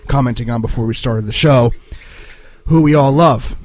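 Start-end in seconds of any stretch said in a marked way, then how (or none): 2.7-3.5 dry mock praise; sarcastic. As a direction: say it with obvious sarcasm. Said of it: "if you can't sense that sarcasm".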